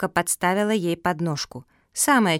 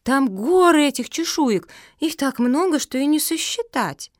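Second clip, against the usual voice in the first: high, loud amazed rush; can't believe how many; dog telling friends of the find, excited; 7 semitones higher, 3 dB louder than usual. A narrator's reading. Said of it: "закричала Марсия".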